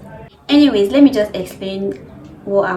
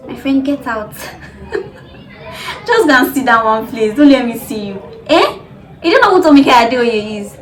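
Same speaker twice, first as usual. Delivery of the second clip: mock outrage; 3 semitones higher, 7 dB louder than usual. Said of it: "I'm just kidding".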